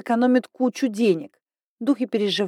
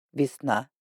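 thoughtful; 7 semitones lower, 5 dB quieter than usual. A narrator's reading. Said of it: "задумчиво ответил Райндер".

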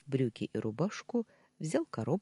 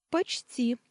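high, lightly smiling answer; smiling reply; 10 semitones higher than usual. A narrator's reading. Maid admits being almost a psychologist, smiling. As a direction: answer with an audible smile. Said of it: "улыбнулась она".

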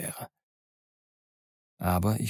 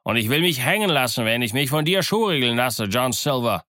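higher, indignant pirate outcry; mutinous raised pitch; called-out protest; 3 semitones higher, 3 dB louder than usual. Acted. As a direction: call out in defiance. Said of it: "rief ein anderer".

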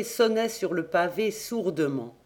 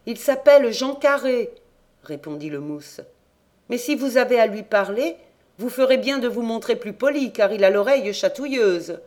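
put-on cabin boy; 5 semitones higher, 4 dB louder, faster than usual. A narrator's reading. Cabin boy answers the king.

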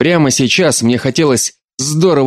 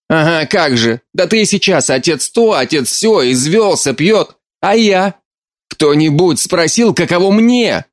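high, pitched-up hurt reproach; mother mocking the daughter's pleas, bitter and high; bitter outburst; 7 semitones higher than usual. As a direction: throw the grievance back at her.

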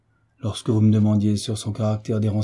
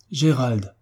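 a touch of astonishment on the name; startled exclamation; 2 semitones higher than usual. A narrator's reading. Marquis confounded by the revelation, mildly startled cry. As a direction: exclaim it, confounded but restrained. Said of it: "s'écria le marquis à son tour".

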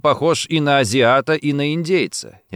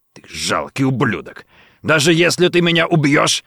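angry hiss; 4 semitones higher than usual. A narrator's reading. Colonel curses Richard, hissing with rage. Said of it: "гневно шипел Торнер".

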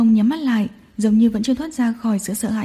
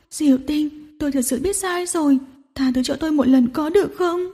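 trembling sobs; 3 semitones higher than usual. Acted. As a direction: beg through tears. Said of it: "khóc đến run rẩy". (khóc run rẩy van xin)

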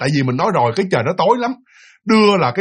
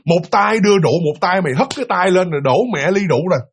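mildly raised, indignant scolding; retold angry yelling; 3 semitones higher than usual. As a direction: accuse a drinking buddy, acted out. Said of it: "ông tỷ ông la".

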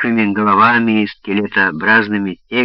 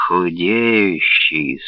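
croaking vulture; 3 semitones lower, much slower than usual. Acted. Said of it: "скрипуче прокаркал цыган-стервятник".

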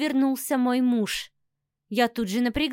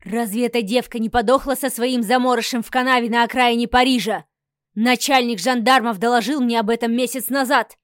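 angry; 5 dB louder than usual. Acted. Count raging at wife.

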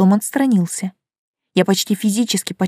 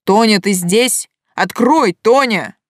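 calling through door; 3 semitones higher, 4 dB louder, slower than usual. Acted.

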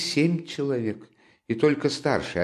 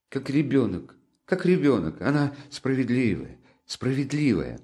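high, pleading, near tears; anguished defence; 6 semitones higher than usual. A narrator's reading. Sonya passionately defends Katerina to Raskolnikov, high and pleading. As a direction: plead her case in anguish.

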